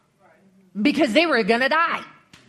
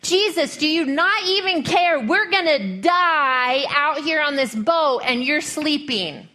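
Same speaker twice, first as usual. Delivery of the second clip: high, frantic yell at a sleeping man, slowing at the end; panicked yelling; 5 semitones higher than usual. Acted. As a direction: cry out in panic that you're about to drown. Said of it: "they're yelling at him".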